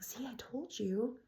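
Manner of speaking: imitating a dad's hushed aside; dad's whisper. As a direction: confide it quietly to a small child. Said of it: "her dad whispers to her".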